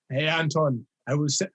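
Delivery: lightly imitated German accent; terrible German accent. Host quoting Timo's message, bad German accent. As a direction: try a half-hearted German accent, then give up. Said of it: "in his German accent".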